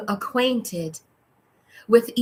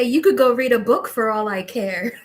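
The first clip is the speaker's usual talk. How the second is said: laughing; 3 dB louder than usual. Real, not acted. Laughs at channeled guides' reply.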